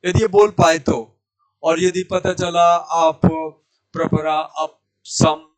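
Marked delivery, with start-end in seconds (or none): 3.9-5.4 अप clipped to "ap" and run into सम; imitated wrong recitation. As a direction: recite प्रपरा, अप सम with no vowel after the प. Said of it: "ऐसे बोल रहे हो". (गलत उच्चारण की नकल, अप का प अधूरा)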